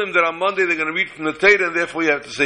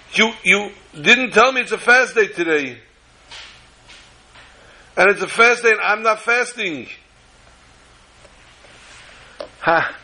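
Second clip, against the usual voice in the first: higher, upset and tearful; crying complaint; 6 semitones higher than usual. Retold or imitated. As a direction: pour out his distress to the Rav. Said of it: "And he starts to cry".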